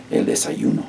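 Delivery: whispered model word, "El desayuno" breathed; whispered repeat. Shown as a demonstration. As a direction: whisper "El desayuno" for the class to echo. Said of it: "¿cómo se dice breakfast en español?".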